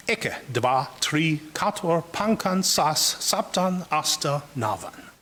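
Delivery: evenly chanted-out list, dropping at the end; Sanskrit recitation. Shown as a demonstration. Lecturer reading out Sanskrit numerals one through nine, steady recitation. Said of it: "Or this string of words".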